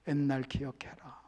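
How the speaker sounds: hushed warning; voiced whisper of God; whispered reminder. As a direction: breathe it as a soft warning.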